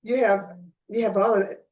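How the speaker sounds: hiccuping mid-sentence; hiccups. Real, not acted. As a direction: talk with sudden hiccup jolts. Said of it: "Well, I have hiccups sometimes".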